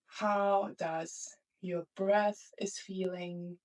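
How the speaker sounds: calm meditation guide with long pauses between phrases; unhurried, settling guidance into the present moment; guided meditation. Acted. Teacher guiding the student into the present moment, calm guided meditation.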